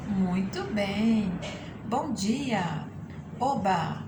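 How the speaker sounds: short exclamations, pitch swooping and falling; entonação exclamativa. Shown as a demonstration. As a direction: call out each expression with exaggerated intonation, one by one. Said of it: "um exercício rapidinho de entonações". (entonação de exclamação, bem marcada)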